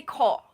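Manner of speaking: ko with an English O; wrong ko. Shown as a demonstration. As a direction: ko said with a long American O. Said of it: "the O is lighter".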